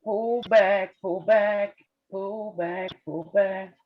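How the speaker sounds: urgent repeated pleading; frantic retreat order. Real, not acted. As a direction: chant it, urging it down. Urging stock to pull back.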